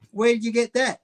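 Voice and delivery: high-pitched joke barman's question; astonished barman. Acted. Barman asking about the parrot on a shoulder, high-pitched question. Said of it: "the barman turned around and goes".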